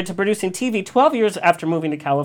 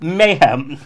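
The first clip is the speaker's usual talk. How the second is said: slow, louder, dramatic introduction read; grand entrance announcement; 4 dB louder, slower than usual. Acted. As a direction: build her up like a legend. Host reads dramatic introduction.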